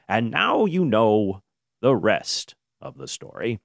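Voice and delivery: a light, slowed radio-announcer sign-off; drawn out like an old radio host; Paul Harvey. Retold or imitated. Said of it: "as Paul Harvey would say".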